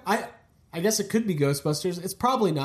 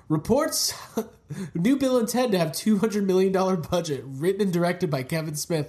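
raised-pitch fake reporter read; mock news report; 2 semitones higher than usual. Host invents a film news report, mock announcer. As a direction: announce it like a breaking headline.

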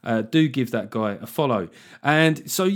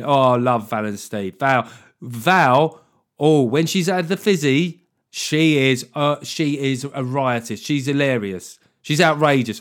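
gossipy fond friend; 5 dB louder, slower than usual. Acted. Voicing a fond gossip about Val.

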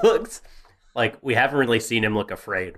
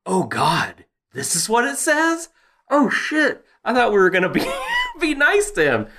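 mock panic; 12 semitones higher than usual. Panicked Floki reading the scroll.

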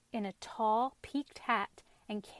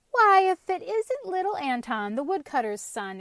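surprised; 7 semitones higher, 7 dB louder than usual. A narrator's reading. Stout cabbage greets Anton.

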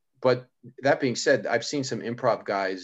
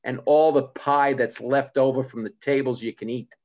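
John DiResta; 5 semitones higher, 5 dB louder than usual. Retold or imitated. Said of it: "John's gigs. It's like".

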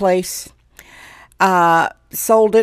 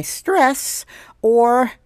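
voice going up; 3 semitones higher than usual. Real, not acted. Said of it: "did you hear my voice go up".

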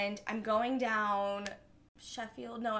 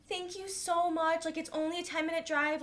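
higher and sweetly thankful; grateful drunk girl; 5 semitones higher than usual. Retold or imitated. Drunk stranger thanking the driver who gave her a ride, gushing. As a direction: gush your thanks like a relieved stranger. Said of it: "and she's like".

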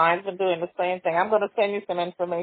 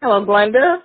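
loud, higher call with a questioning rise; 4 semitones higher, 10 dB louder than usual. Real, not acted. Trying to reach Glenda on the phone, calling out. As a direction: call out to check someone is still on the line. Checking if Glenda can hear.

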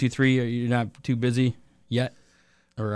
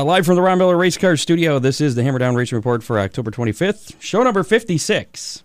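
cheesy announcer voice; 3 semitones higher than usual. Acted. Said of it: "I do all kinds of cheesy stuff".

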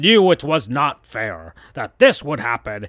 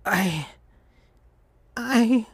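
stammering; 8 semitones higher, 3 dB quieter than usual. Acted. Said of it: "trying to say what she wanted to".

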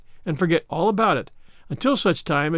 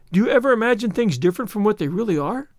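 put-on higher, curious child voice; wide-eyed wonder; 4 semitones higher than usual. Anne questions Marilla about imagining, wide-eyed. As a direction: ask in innocent amazement. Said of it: "asked Anne wide-eyed".

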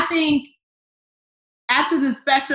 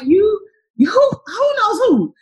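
stunned sputtering; 10 semitones higher than usual. Retold or imitated. Retelling stunned reply to star.

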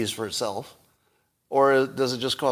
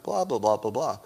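bored blah blah. Shown as a demonstration. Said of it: "I'd be like".

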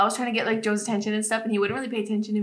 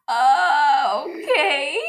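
laughing uh okay; 3 semitones higher, much slower than usual. Retold or imitated. Retelling confused reply to I love you.

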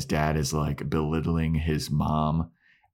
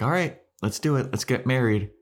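high quick eager voice; bubbly bride-to-be pushing ahead; eager Anya; 7 semitones higher, faster than usual. Retold or imitated. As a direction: rush it, keen to marry. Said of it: "and Anya's like".

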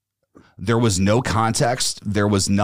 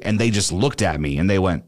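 usual speaking voice

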